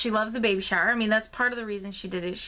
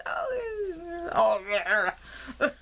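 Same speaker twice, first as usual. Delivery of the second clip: overwhelmed laugh-cry; 9 semitones higher, much slower than usual. Real, not acted. Overwhelmed recalling the chaos.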